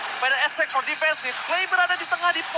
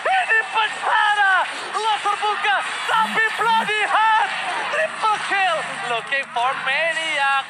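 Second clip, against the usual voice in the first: fighting game announcer; 3 semitones higher than usual. Acted. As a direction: call every kill like a finale. Live play-by-play of teamfight.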